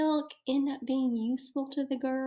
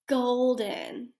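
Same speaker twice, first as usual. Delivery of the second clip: shouting. Shown as a demonstration. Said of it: "all gonna shout it out to me".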